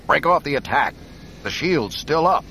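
high, loud urgent order; urgent shout. Acted. Ordering fleet to retreat.

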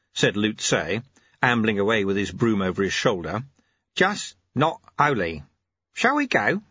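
put-on a kindly old sweeper, amused; old monk Lu Tse. Old sweeper reading the abbot's note, genial.

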